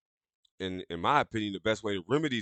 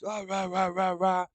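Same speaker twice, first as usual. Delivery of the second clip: higher-pitched mock ranting babble; 8 semitones higher, slower than usual. Retelling how he got in her face, mock ranting. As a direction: imitate someone yapping in a person's face. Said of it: "he was in her face".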